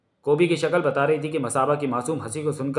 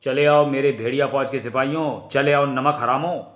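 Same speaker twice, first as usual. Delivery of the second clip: commanding call to troops; summoning call. Acted. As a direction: call out to summon your soldiers. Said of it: "अभी बुलाता हूँ".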